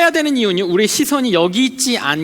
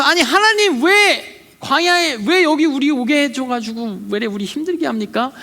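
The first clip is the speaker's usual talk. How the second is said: mock complaint; 4 semitones higher than usual. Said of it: "불평할 때".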